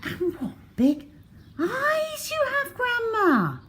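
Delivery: put-on very high, crying-out child voice; rising alarm, nearly crying; frightened girl. A narrator's reading.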